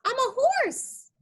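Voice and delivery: high, slow put-on horse voice; horse character voice. Teacher speaks as the horse to the kids.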